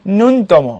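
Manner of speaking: "ন্যূনতম" as nun, then tomo; সঠিক উচ্চারণ. Shown as a demonstration. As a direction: stop "ন্যূনতম" briefly after nun. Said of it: "উচ্চারণ হবে নুন". ("ন্যূনতম" ভেঙে, নুন-তমো)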